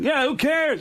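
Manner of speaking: high, dismissive mock voice; Norm Macdonald. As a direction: wave off the objection in a put-on voice. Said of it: "and Norm goes".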